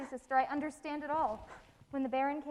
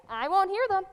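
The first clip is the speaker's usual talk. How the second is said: much louder, cutting off her sister; loud refusal; 4 semitones higher, 11 dB louder than usual. Acted. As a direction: shout her down.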